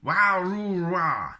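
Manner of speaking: loud, high mock Wookiee howl; Wookiee roar. Shown as a demonstration. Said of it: "Also helpful".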